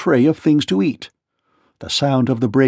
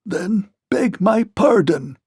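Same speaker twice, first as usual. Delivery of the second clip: slow, stiff mock gruff demand; Tik-Tok demands an apology from the king; gruff clockwork voice; 7 semitones higher, slower than usual. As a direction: grind it out like unoiled gears. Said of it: "in a gruff voice".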